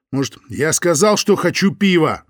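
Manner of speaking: rising angry shout; angry outburst. Acted. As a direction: snap it out in anger. Лёня snaps at Соня.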